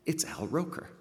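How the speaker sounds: high, delighted exclamation; surprised recognition. Retold or imitated. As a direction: spot a famous face in the crowd. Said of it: "he says".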